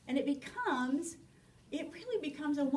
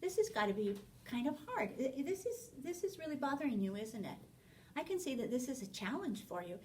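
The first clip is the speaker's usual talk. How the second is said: soft, quick, understanding parent voice; gently mirror the child's struggle; soft sympathetic reassurance, a little rushed; empathetic reflecting; 5 dB quieter, faster than usual. Shown as a demonstration. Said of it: "reflect back to them that you understand their concern".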